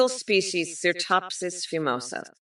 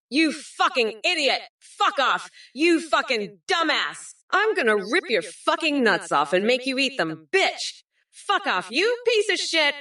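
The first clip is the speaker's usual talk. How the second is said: swearing tirade; 3 semitones higher than usual. Acted. Escalating insult rant at Trump.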